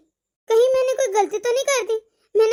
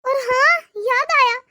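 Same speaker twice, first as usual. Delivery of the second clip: regretful monologue; 2 semitones higher than usual. Acted. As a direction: speak to yourself, full of remorse. Long remorseful monologue by mother.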